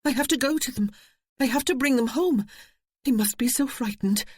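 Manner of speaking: spring up crying out to go; urgent cry. A narrator's reading. Eve crying out that she must fetch the children. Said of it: "she cried".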